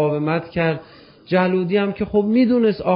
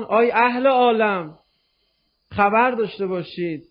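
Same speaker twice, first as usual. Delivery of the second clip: calling out; 3 semitones higher than usual. Acted. Preacher calls out to the world.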